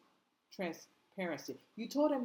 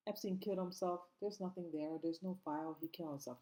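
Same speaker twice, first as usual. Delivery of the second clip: mock dismissive denial; 5 dB quieter than usual. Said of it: "Dan, um, Bongino".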